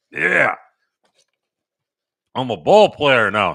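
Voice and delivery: imitating dad. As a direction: playfully act out dad feeling like a pro. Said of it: "He's like".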